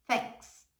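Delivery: "Thanks" said as fenks, th sounding like F. Shown as a demonstration. Teacher drills Thanks with an f-like th. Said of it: "É quase como se fosse um F".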